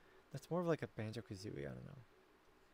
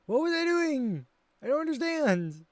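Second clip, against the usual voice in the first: loud, high mock-distraught wail; hammed-up bafflement; 12 semitones higher, 9 dB louder than usual. Streamer baffled by what they were doing, mock-distraught wail. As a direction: cry it out in exaggerated disbelief.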